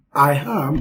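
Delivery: "I am" said with a bit of extra stress; emphasize "I am" as a voice reader would. Shown as a demonstration. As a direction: lean a little on "I am". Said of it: "there'll be a bit of stress".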